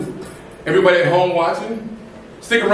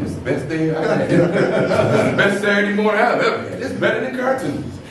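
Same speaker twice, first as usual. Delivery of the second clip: laughing through a retold happy reply; amused, laughing while quoting himself; laughing delight; 3 semitones higher than usual. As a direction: chuckle through the words, tickled.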